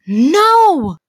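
loud, high refusal; flat-out refusal shouted at the apologizer; emphatic no. Real, not acted. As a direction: shut it down hard.

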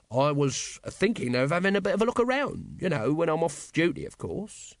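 high, shifty show of virtue; virtuous. Acted. Nobby admits plans to his captain, virtuously. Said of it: "he added virtuously".

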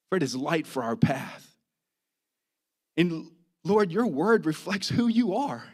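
pastor praying aloud, phrase by phrase with pauses; earnest prayer. Real, not acted. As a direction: lead the congregation in heartfelt prayer. Leads congregation in prayer.

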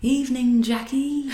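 lightly voiced bobby greeting; a hint of a British copper; policeman impression. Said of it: "'Cause I know it's a really good impression".

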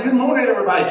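mildly loud teacher imitation. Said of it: "And I get louder and louder".

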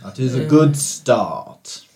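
lightly voiced slow genie; a hint of a grand genie, slow.

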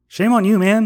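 a sudden high, loud scold; mock scolding. Scolding adults who scream for fun, loud mock reproach.

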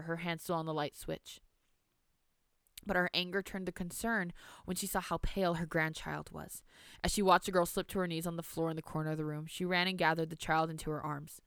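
measured storybook reading; story narration. A narrator's reading. Reads story aloud.

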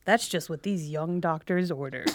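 drawn-out, punched-up TV newscaster read. Acted. Student mocking the local news description of match day, hammed-up newscaster voice. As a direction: announce it like a local news teaser, slowly at first. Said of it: "newscaster voice".

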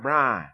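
Brian run together as "Brah"; one-syllable Brian. Retold or imitated. Preacher rejecting the locals' version, one-syllable Brian. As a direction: imitate Brian with the second syllable dropped. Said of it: "My name is Brian".

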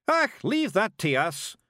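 high, loud, drawn-out shout; high-pitched little pixie holler. A narrator's reading. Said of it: "shouted Rob Anybody".

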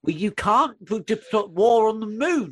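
drawn-out, rising mock telling-off; exasperated scolding. Telling off Strax for declaring war, exasperated. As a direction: scold slowly, pitch climbing in exasperation.

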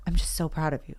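imitating partner, soft and sincere; gentle, quiet retold encouragement; tender praise. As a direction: softly reassure someone you love. Voicing husband's tender praise.

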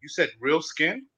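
high, stunned repeats; incredulous. Real, not acted. Friend mentions real skin, he interrupts incredulous. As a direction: stop everything, disbelieving.

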